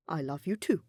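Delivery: tender unvoiced whisper of love. A narrator's reading. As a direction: breathe it like a secret. Hubert's whispered confession amid the contract.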